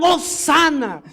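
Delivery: mild preacher's imitation of a jubilant cry; crowd shouting praise. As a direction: act out a cheering crowd. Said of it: "Y gritaban".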